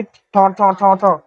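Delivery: imitated banging. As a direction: mimic knocks on a car roof. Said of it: "फिर आवाज आई गाड़ी के ऊपर". (ठा-ठा खटखट की नकल)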